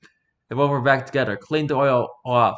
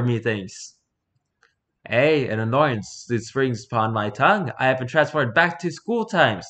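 Shakespearean lord; 3 semitones higher than usual. Acted. Lord Blackwood greeting the maid in theatrical old English. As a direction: declaim like a stage lord.

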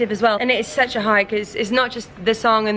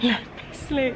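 softer, worn-out quote; mock exhausted; 2 semitones higher, 6 dB quieter than usual. Guest retelling long show days, mildly exhausted mumble. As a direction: act out being knackered, softly. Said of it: "you're just knackered and you're like".

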